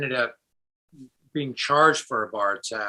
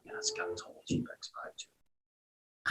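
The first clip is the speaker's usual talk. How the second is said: hushed aside; 11 dB quieter than usual. Retold or imitated. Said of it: "I'm like".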